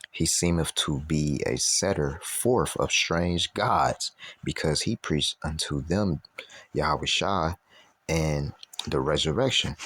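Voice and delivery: slow, deliberate Bible reading; scripture reading. Acted. Preacher quoting what others said of Paul, scripture reading. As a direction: draw the verse out phrase by phrase.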